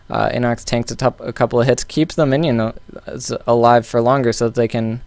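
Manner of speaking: stumbling over words, with false starts; tongue-tied. Real, not acted. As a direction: trip up mid-sentence, restarting words. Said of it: "I'm getting so tongue-tied".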